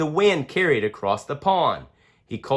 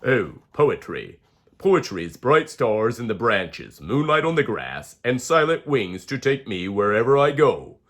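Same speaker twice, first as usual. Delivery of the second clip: lower, calm wise owl; 4 semitones lower than usual. Acted. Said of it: "she whispers".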